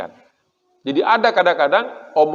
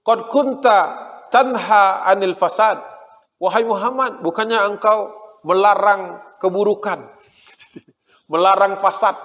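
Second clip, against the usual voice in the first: higher, slow called-out accusation; mock shout; 4 semitones higher than usual. Jews shouting a taunt at Muhammad from the fort, mock yell. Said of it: "Jadi teriak gitu".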